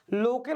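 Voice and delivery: लोके ending in a plain 'e' vowel; wrong pronunciation. Shown as a demonstration. Hindi teacher showing students the wrong form, mispronounced. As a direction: say लोके with a single e sound, not ai. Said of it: "ये शुद्ध बोलने का तरीका है".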